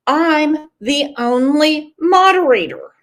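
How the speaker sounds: mock alarm. Host imitating Pat on learning she moderates alone, mock alarm. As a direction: stretch it out in mock disbelief. Quotes friend alarmed at being sole mod.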